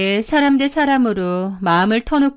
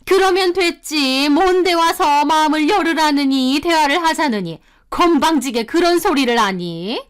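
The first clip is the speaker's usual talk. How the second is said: higher, indignant mother-in-law voice; mother-in-law taking offense; 3 semitones higher than usual. Acted. Mother-in-law rebuking her daughter-in-law, indignant and higher. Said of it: "작정이라도 한 것처럼 저한테 퍼부으시더라고요".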